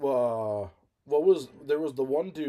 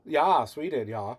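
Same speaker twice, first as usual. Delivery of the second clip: mock Swedish accent; slower than usual. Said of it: "they were speaking Swedish".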